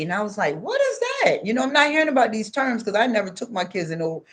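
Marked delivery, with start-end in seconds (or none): 0.6-1.5 high, startled "what is that"; baffled question. Retold or imitated. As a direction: ask as if you've never heard the word. Baffled reply to unknown term.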